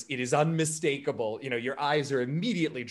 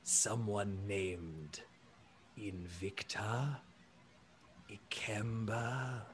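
very slow, soft, lowered giant voice; slightly hopeful elephant person; 5 semitones lower, 6 dB quieter, much slower than usual. Acted. Elephant alien asks a stranger for help, gently hopeful. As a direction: stretch each word gently, deep and earnest. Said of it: "he perks up a little bit at that and says".

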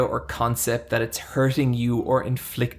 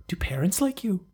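imitating hairdresser Jade; 7 semitones higher, 5 dB quieter than usual. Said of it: "She's like".

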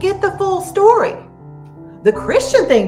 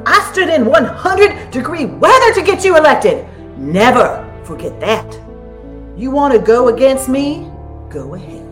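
threatening. Acted. Acted threat, quarrel.

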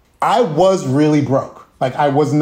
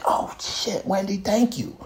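whisper; 5 semitones higher, 8 dB quieter than usual. Retold or imitated. Whispered thanks retold in rehearsal.

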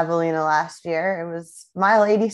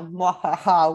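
sneering panto villain cackle; slower than usual. Shown as a demonstration. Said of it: "I really wanna, like, cackle right now".

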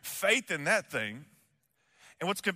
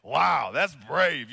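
awed wow; 4 semitones lower, 6 dB louder, much slower than usual. Retold or imitated. Imagined reaction to brave deeds.

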